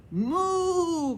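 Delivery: chasing cow mooing loudly; shouted moo. Acted. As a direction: moo out as you chase. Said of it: "gritaba la vaca".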